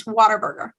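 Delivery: Whataburger as "water-burger", falling at the end; local pronunciation. Shown as a demonstration. Texan correcting viewers on the name, local pronunciation. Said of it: "That's just their legal entity name".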